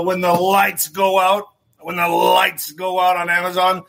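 put-on booming old-time radio announcer voice; a hammed-up vintage announcer plugging the book; old forties announcer. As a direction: sell the title like a 1940s newsreel. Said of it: "I don't know why I do that voices".

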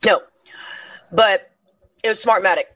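talking through a mouthful of chocolate; words round a crunchy bite; crunching candy. Real, not acted. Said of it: "I'm sorry if I'm crunching into the microphone".

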